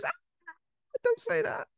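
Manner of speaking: very high, squeaky upset plea; whiny woman voice. Retold or imitated. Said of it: "And she goes".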